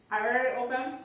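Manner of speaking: talking through a mouthful of food; words mumbled around a bite; mouth full. Real, not acted. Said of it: "Talking with my mouth full".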